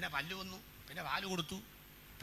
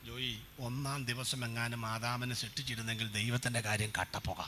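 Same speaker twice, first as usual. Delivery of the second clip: lower, grave voice of the elder preacher; old preacher's reply; 8 semitones lower than usual. Retold or imitated. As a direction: answer like a solemn old pastor. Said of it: "അവ പറയാണ്". (പ്രായമുള്ള ഉപദേശിയുടെ താഴ്ന്ന ഗൗരവ ശബ്ദം)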